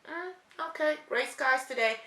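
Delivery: note it lightly and let it go; casual acceptance. Acted. Acting a neutral noticing of weather.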